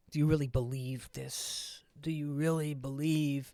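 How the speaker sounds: put-on a light New York accent on a Texan cab driver. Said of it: "I'm doing a New York accent for a Texan".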